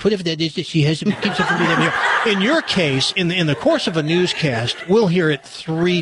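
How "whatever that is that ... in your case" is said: laughing. Real, not acted. Laughing while mocking Barbara Walters.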